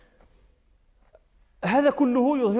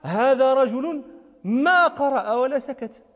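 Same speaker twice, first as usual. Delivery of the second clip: slow quote; 2 semitones higher, slower than usual. Retold or imitated. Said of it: "قال".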